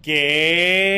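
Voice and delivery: long, loud "qué" of disbelief; drawn-out, loud incredulous reaction; incredulous outburst. Real, not acted. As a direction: stretch it out loud, scandalized. Reacting to the retold pickup line.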